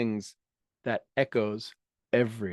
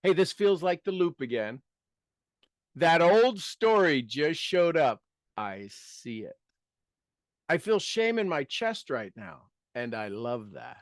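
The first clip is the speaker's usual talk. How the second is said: calm self-talk. Shown as a demonstration. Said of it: "sample phrases".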